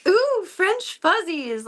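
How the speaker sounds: slow, high delighted coo; imitating an enchanted French teacher. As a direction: gasp then drawl out ooh French fuzzies slowly. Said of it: "she would go".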